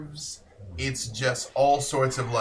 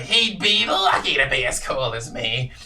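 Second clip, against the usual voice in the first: louder, smug brag; boastful little creature; 6 dB louder than usual. Acted. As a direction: show off. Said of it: "he's like".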